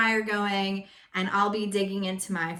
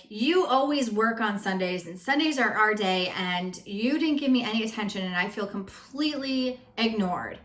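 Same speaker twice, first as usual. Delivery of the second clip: complaining. Shown as a demonstration. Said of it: "Instead of being like".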